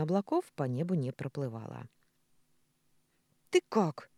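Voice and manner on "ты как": mildly cross, raised short question. A narrator's reading. Маша checking on Николя after the fight, cross. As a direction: ask it with a touch of anger. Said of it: "сердито спросила Маша".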